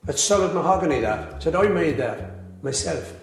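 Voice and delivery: understated, straight-faced joke telling; deadpan. Real, not acted. Beatle telling a pub joke about Jones, deadpan. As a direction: tell the whole joke evenly, giving nothing away. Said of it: "deliver this joke with absolute deadpan perfection".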